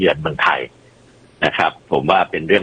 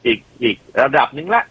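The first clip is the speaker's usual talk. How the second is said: mocking objector; 8 semitones higher than usual. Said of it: "ก็จะมีเสียงค้านตลอด".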